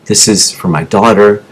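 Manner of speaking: low, subdued plea retold from memory; retold begging. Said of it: "begging him".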